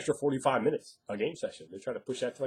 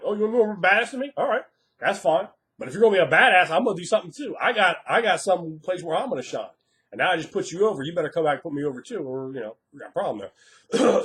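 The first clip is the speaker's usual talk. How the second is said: mock challenge; 4 semitones higher, 4 dB louder, faster than usual. Mock challenge to a show-off player.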